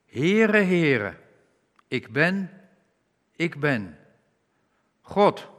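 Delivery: loud and slow, every word weighed; solemn proclamation. Acted. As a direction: proclaim it like the voice of God. God proclaims his own name. (plechtig en luid uitgeroepen)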